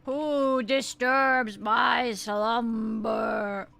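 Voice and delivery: slow booming statue voice; grinding stone statue. Acted. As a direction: drag it out like waking stone. Statue voice wakes slowly.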